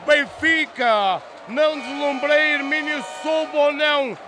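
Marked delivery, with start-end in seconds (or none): 0.1-1.2 explosive goal commentary. Real, not acted. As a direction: yell the goal, holding the last call. Another Benfica goal.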